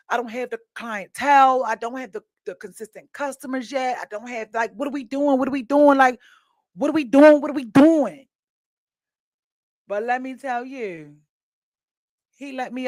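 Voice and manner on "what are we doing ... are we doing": rising panic. Retold or imitated. Panicking over no clients.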